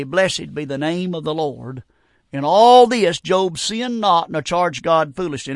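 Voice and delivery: slow, measured Bible reading; solemn pulpit reading with stretched phrases; scripture reading. A narrator's reading. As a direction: read the verse out slowly, drawing out key words. Reads scripture aloud to congregation.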